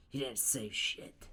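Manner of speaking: loud, slow, indignant yell; Bakugo. Acted. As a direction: shout it back in defiance. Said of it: "And Bakugo says".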